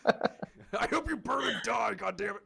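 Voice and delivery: slow, high, laughing fake curse; laughing mock curse. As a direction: curse him jokingly through laughter.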